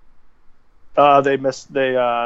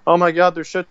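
mock panic; 5 semitones higher than usual. Mocking overreacting fans' panic.

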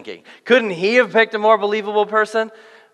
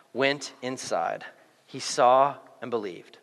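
scripture reading; 3 semitones lower than usual. A narrator's reading. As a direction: read the passage aloud, easing down toward the end. Reads the scripture passage.

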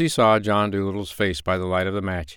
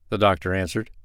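ordinary delivery, nothing marked

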